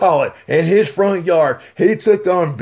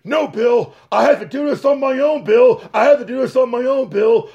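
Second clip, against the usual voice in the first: higher, shouted insistence; mock stubborn refusal; 4 semitones higher, faster than usual. The speaker refusing Bill's tag, mildly hammed insistence.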